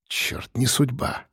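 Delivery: slow, soft mutter of resignation. A narrator's reading. Narrator gives up at the password prompt, slow soft mutter. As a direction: mutter it slowly under your breath. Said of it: "пробормотал я".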